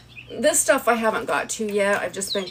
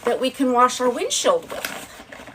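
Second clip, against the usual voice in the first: excited; 5 semitones higher than usual. Retold or imitated. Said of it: "I was like".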